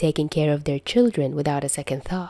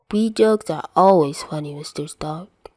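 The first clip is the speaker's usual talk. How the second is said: mock serious. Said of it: "Peter says seriously".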